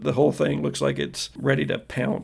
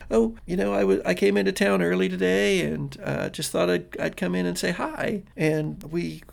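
lightly voiced girl, pitched a bit higher; casual girl; 5 semitones higher than usual. Girl tells boyfriend she came by, casual. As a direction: explain offhandedly, a touch hesitant. Game master plays Cassie.

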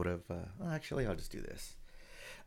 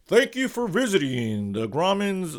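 slow, higher showman announcement; announcer voice; 7 semitones higher, 4 dB louder than usual. Retold or imitated. Theater host greeting the movie audience, announcer voice. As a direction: welcome the crowd like an emcee. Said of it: "the guy comes out and says".

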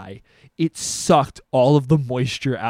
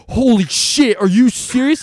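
gullible friend; 9 semitones higher, 9 dB louder than usual. Retold or imitated. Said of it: "He goes".

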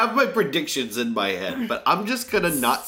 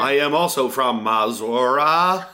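mock alien; 4 dB louder, slower than usual. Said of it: "You sound like an alien".

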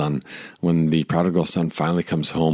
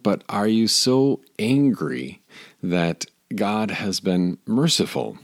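incredulous question; 4 semitones higher, slower than usual. Real, not acted. Preacher questions Jonah's anger.

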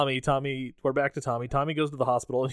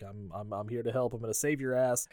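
low mumbled Loomis; 3 semitones lower, 7 dB quieter than usual. Retold or imitated. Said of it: "he's like".

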